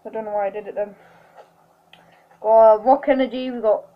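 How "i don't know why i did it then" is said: whisper. Real, not acted. After screaming, sheepish aside.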